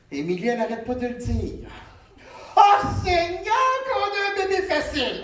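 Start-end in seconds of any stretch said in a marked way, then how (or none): 2.6-5.2 mock sing-song praise.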